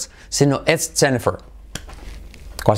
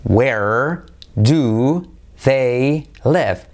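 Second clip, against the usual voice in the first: "where do they live?" drawn out slowly and firmly; slow model question; much slower than usual. Shown as a demonstration. Teacher slowing the question down for learners. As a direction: stretch each word of the question.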